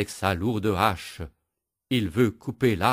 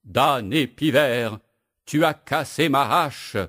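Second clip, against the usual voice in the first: sobbing; 5 semitones higher, 5 dB louder than usual. Acted. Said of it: "le bûcheron sanglote".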